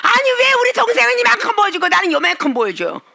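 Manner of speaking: huffy whine. Retold or imitated. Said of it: "하면서 씩씩거리는".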